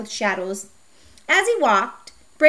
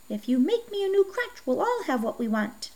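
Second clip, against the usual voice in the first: put-on very old man; 4 semitones higher, 4 dB quieter than usual. A narrator's reading.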